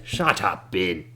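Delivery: put-on curt old man's snap; old man silences Ben Dubas again; cranky old man. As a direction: cut him off with a snap. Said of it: "old man silences Ben".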